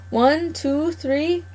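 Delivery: put-on old gardener counting his catch with glee; gloating farmer counting. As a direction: savour each number like a greedy old farmer. Mr McGregor counts on fingers.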